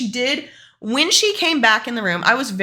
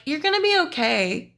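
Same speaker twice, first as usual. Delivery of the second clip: reassuring doctor; 7 semitones higher than usual. Retold or imitated. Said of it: "she's just like".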